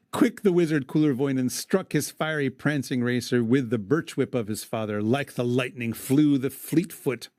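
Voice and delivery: measured verse reading; poem recitation. Acted. Host reading the epic to his cohost, recited verse. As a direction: read it aloud like old poetry.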